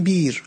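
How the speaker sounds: بیر with a plain long i, no glottal stop; بیر instead of بئر; hamza as ya. Shown as a demonstration. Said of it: "این رو با یا تلفظ کنید".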